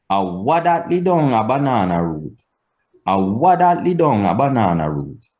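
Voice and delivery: A WHAT THAT LI DOWN lifted early, falling to ROOT; Patois question intonation. Shown as a demonstration. Teacher giving examples to learn, stepping-down Patois question intonation. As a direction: raise WHAT THAT, then step down to ROOT. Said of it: "The intonation has to be learned".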